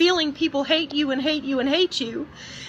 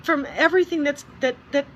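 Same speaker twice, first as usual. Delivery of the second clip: real crying. Real, not acted. Vlogger breaking down about leaving the media, crying. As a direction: voice breaking into tears. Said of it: "Sorry for getting emotional".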